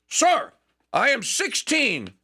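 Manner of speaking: put-on a high, eager boy's answer, slow on sixteen; proudly piping up to the general; young Hamilton. Hamilton answering Washington's question.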